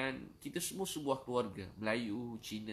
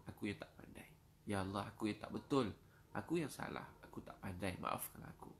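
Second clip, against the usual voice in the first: confessing plea, phrase ends dropping to near whisper; humble supplication. Retold or imitated. Preacher voicing the Prophet's prayer at Taif, humbly pleading and fading. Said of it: "tahu tak Nabi doa apa?".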